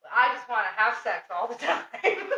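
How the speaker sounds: imitated quote dissolving into laughs; breaking into laughter. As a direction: start straight, crack up at the end.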